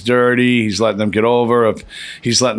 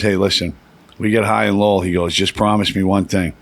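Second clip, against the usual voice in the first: low-pitched retold plea; imitating Chris; 3 semitones lower than usual. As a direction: imitate a friend asking a favor, lower voice. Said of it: "he used to say like this".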